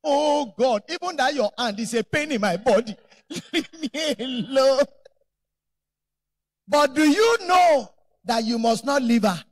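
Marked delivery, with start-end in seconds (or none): 0.0-4.8 slow, pouting wife pushing him away; sulking wife. Retold or imitated. Preacher imitating an angry wife who doesn't mean it, slow and pouting. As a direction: mimic a hurt wife's protest. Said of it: "she will say".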